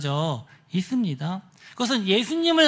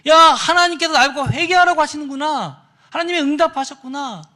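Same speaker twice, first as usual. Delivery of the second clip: raised, loud excited outburst; acted amazed realisation; 7 semitones higher, 8 dB louder than usual. Praying youth believes God answered him, acted excitement. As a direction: exclaim as if an answer just came.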